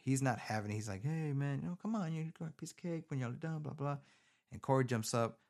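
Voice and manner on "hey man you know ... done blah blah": pushy sheriff. Retold or imitated. Sheriff voiced again.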